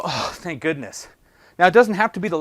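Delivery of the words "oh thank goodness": relieved sigh. Retold or imitated. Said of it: "all of a sudden I go".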